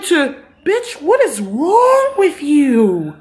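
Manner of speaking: high, slow, drawn-out disbelief; exasperated outburst. Real, not acted. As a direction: plead with the TV in disbelief. Outraged rant at character.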